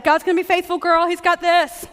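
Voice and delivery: cheerleading platitude, gently mocked; mock encouragement. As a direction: lightly imitate a pushy encourager. Mimics gushing encouragers.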